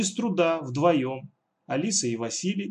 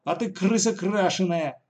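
cheeky retort; 6 semitones higher, 3 dB louder than usual. Acted. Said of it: "не осталась в долгу Катя".

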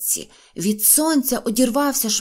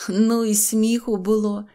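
ordinary delivery, nothing marked

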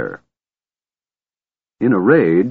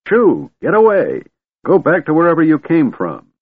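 put-on high, louder old wizard shooing dragons; old man shooing; 9 semitones higher, 4 dB louder than usual. A narrator's reading. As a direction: shoo them off like chickens. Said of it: "like a farmer's wife driving her chickens".

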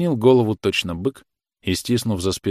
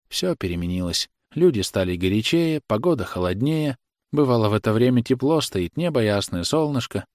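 mother chattering to cover tears; the mother, lightly voiced, nervously cheerful; loud forced chatter. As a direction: talk brightly to drown the quarrel. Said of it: "громко заговорила".

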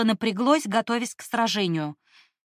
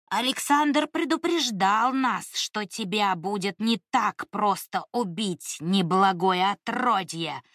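slow rumbling creature voice; rumbling monster. Acted. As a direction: rumble it out slowly. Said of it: "пророкотал тот".

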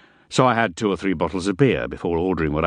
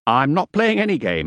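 hasty placating; 8 semitones higher, 3 dB louder than usual. A narrator's reading. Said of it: "I had to stop him quickly".

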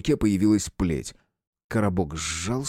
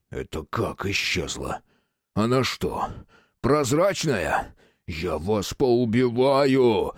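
roared; 2 semitones higher, slower than usual. Acted. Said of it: "взревел Квадратный".

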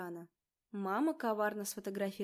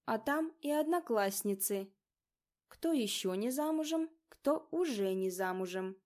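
ominous; 2 semitones higher, 3 dB louder than usual. Acted. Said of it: "зловеще произнесла она".

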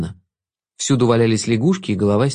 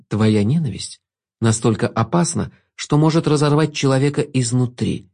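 velvety voice. Acted. Jester voice. (бархатный невинный голос)

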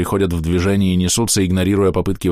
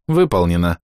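lightly voiced machine reply; neural network voice. A narrator's reading. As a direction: say it like a computer confirming.

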